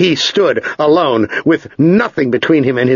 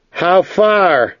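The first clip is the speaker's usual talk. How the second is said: raised pitch, falling on the last word; questioning young traveler; 7 semitones higher than usual. A narrator's reading. Ged asks his silent guide after some miles, questioning.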